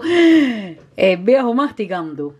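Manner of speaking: "El viejo masticando" stretched out slowly, each word savoured; amused slow repeat of "El viejo masticando"; slow, drawn-out repeat. Shown as a demonstration.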